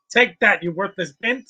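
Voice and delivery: a half-shouted gloating jab; mock battle taunt. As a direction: jeer at the loser like a cartoon villain. Mocking the fight on screen.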